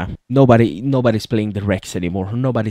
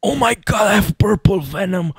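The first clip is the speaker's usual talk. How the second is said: much higher, delighted squeal of discovery; excited; 7 semitones higher than usual. Real, not acted. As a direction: gamer discovering purple venom, squealing excitedly. Finds purple venom ability.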